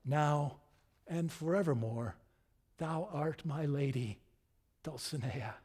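tender, measured knightly pledge; Quixote. Acted. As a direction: pronounce the beloved's name with calm devotion. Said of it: "And Quixote sings".

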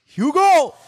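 high, playful holler; hammed-up shout to a buddy; mock calling out. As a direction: call the name out high, teasing. Mock calling brother by new nickname.

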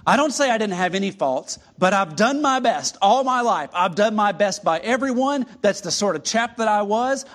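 a self-righteous ghost insisting on his good record; indignant ghost. Acted. Reads ghost's indignant speech.

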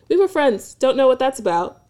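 lightly mocked media-trained reply; Disney answer. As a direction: mimic a neat Disney-star reply. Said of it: "a very Disney answer".

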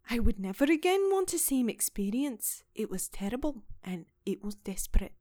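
put-on an accent somewhere between Irish and Scottish; vague Celtic accent. Podcaster quoting the housekeeper, muddled Irish-Scottish accent. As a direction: give it a hazy Celtic lilt. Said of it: "it wasn't Ireland, but it wasn't Scott".

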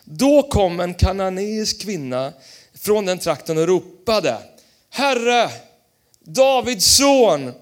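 slow, solemn Bible reading; scripture reading. Acted. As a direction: read the verses with weight. Reads scripture aloud. (högtidlig bibelläsning)

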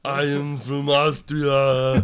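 put-on slow, loud foreign-student accent; Austrian exchange student accent. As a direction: plod out each word like an exchange student. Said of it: "this exchange student sounds retarded".

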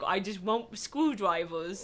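slow, lightly voiced toddler; baby Kylo voice. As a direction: drag it out like a pouting toddler. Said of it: "a Baby Kylo voice".

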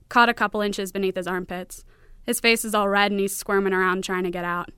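author reading her story aloud, a little firmer; story narration. A narrator's reading. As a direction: read it out as dry first-person fiction. Author reads her story in full.

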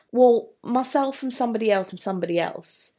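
words tumbling out fast, picking up speed; quick listing rush of names; building speed. Shown as a demonstration. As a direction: rush the list forward. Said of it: "Building up speed".

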